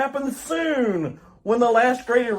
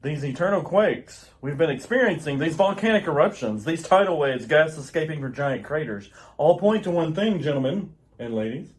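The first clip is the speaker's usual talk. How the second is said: much lower, somber warning; grave Jor-El; 7 semitones lower than usual. Acted. Jor-El warning the council, much lower and somber. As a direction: weigh every word of doom. Jor-El's doom speech.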